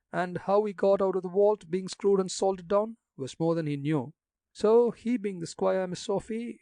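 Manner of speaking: put-on gossipy old gravedigger in broad country dialect. Jacques excuses himself.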